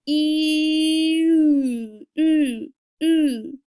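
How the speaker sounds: slow "E" turning to "ooh" with rounding lips; E sliding to French u. Shown as a demonstration. Teacher modelling the French u, E to ooh. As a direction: glide from "E" into "ooh". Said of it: "So let's try that again".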